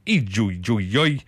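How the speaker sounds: put-on slow amateur Chinese accent; rough, slow stab at a Chinese accent; attempted Chinese accent. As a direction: sound it out slowly in a Chinese accent. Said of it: "get better at these accents".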